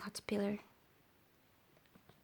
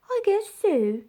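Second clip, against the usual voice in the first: glumly; 9 semitones higher, 5 dB louder than usual. Acted. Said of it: "said Caterpillar glumly".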